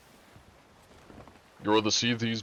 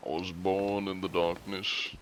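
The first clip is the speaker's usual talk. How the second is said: lightly voiced masked villain; understated villain impression; Bane; 4 dB quieter than usual. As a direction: toss off the villain line at a usual pitch. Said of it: "many Bane lines".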